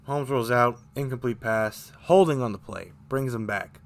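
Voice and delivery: choking up mid-sentence; talking through a scratchy throat; throat catching. Real, not acted. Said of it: "I'm choking up over here".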